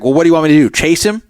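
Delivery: mock sarcastic floor manager; sarcastic retort. Floor manager dismissing a player's complaint, sarcastic. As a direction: toss it back dryly, mocking. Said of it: "sarcastically said back".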